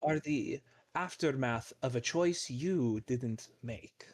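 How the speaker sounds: whispered slowly, like a fateful secret; a slow, unvoiced oracle whisper; ominous whisper. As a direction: hush it out as a solemn prophecy. Fortune teller's ominous final line.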